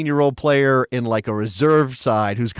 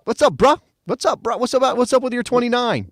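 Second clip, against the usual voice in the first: much higher mock tough-guy voice in a Spanish accent; imitating Mark Rocca; 11 semitones higher than usual. Host mocking Rocca confronting Weston in the locker room, high hammed-up bro voice. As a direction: ham up a teammate confronting him, pitched way up. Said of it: "How does Mark Rocca sound?".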